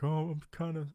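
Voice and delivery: put-on a light British accent for Steven; British accent imitation. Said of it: "and he's like".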